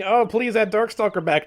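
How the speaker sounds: high-pitched imitated pleading; hammed-up begging; mock begging. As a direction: plead like an eager fan. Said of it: "We were begging".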